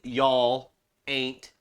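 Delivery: drawn-out Southern "y'all" and "ain't"; Southern accent. Shown as a demonstration. South Carolinian showing words that need an accent, Southern accent. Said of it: "can't say that without an accent".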